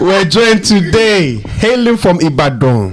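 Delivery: hype man. Pretend. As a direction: sell the arrival to a packed arena. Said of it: "You have to introduce yourself before you come on stage".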